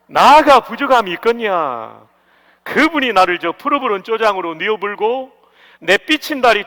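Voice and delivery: loud, lively Jeolla-accented psalm; 전라도 사투리로 신나게; Jeolla dialect reading. Shown as a demonstration. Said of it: "마지막 전라도 버전입니다".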